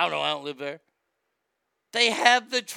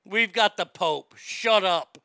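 louder defiant retort; defiant Catholics; 6 dB louder than usual. Retold or imitated. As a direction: snap back like a proud Catholic. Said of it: "Catholics are like".

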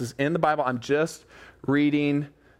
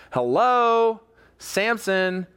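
higher, mock-exasperated call to Samson; 4 semitones higher, much slower than usual. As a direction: try to get through to someone dense. Listener exasperated at dense Samson.

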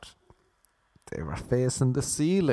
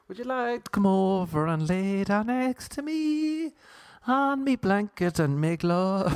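seductive chat-up; 7 semitones higher than usual. Pretend. Chat-up line again.

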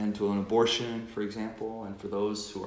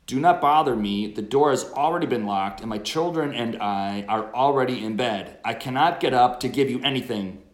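annoyed refusal; 2 semitones higher, 7 dB louder than usual. Acted. Sleepy friend refusing at midnight.

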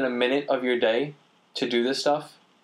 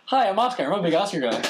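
imitating a friend; 8 semitones higher than usual. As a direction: introduce yourself like an eager film nerd. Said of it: "as he told me".

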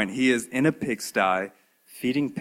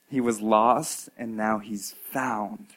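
tender father; 4 dB quieter, slower than usual. Acted. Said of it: "he says".

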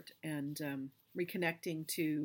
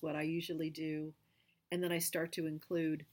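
guided meditation. Acted. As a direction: lead the listener through the visualization. Leads guided visualization.

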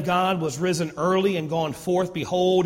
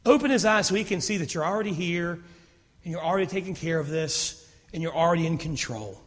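softer, calm confident prayer; quiet trusting prayer; 5 dB quieter than usual. Retold or imitated. Elisha praying calmly for his servant, soft and sure. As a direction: pray it gently, certain. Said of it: "He says".

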